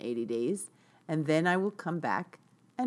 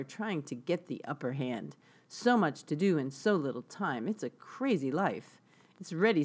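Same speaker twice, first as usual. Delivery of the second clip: gentle spoken reading of song lyrics. Shown as a demonstration. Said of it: "read the lyrics to it".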